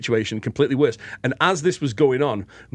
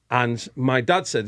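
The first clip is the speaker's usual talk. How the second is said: usual speaking voice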